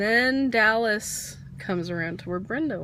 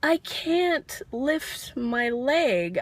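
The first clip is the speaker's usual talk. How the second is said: pleading mouthed reply; 5 semitones higher, much slower than usual. Retold or imitated. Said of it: "I'm looking at her going".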